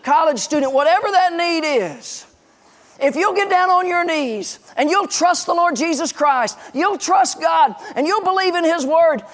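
high-pitched, emphatic sermon delivery; fervent preaching. Real, not acted. Preacher urges students to trust God for every need, fervent. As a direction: drive the promise home, stretching key phrases. Preacher drives home the moral.

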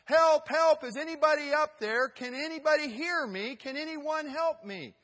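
very high, very loud cry for help that fades toward the end. Acted. Stranded hiker screams up the cliff for rescue, frantic. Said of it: "then he said".

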